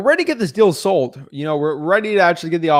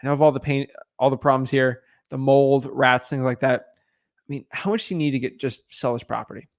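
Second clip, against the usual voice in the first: sympathetic question; 2 semitones lower than usual. Acted. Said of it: "be like".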